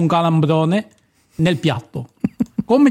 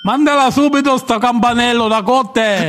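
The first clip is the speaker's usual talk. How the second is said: showy game show host; 5 semitones higher than usual. Pretend. Quiz host calls for jingle.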